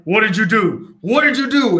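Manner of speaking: exclaimed, mounting disbelief in a retold quote; acted demand. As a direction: act out Thor demanding an answer, rising into a mock shout. Retelling Thor shouting in shock.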